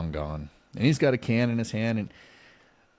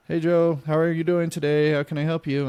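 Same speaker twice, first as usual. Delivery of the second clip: much higher bright phone-agent voice; cheery operator; 8 semitones higher, 4 dB louder than usual. Retold or imitated. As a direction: chirp like a customer service lady. Security operator answering cheerfully.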